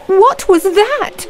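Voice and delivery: high, slow scared question; frightened cry. Acted. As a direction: gasp it out in fear. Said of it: "cried Gretel".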